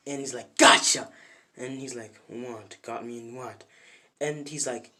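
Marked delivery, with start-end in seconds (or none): 0.6-1.1 loud, sudden gotcha; spring the trap with a shout; punchy acted outburst; triumphant shout. Opponent springs his trap. 2.3-3.6 confused. Retold or imitated. Deku confused by opponent's boast.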